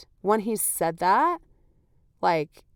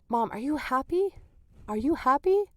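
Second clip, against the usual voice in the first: imitated toddler question; 4 semitones higher than usual. Voicing her toddler's repeated question.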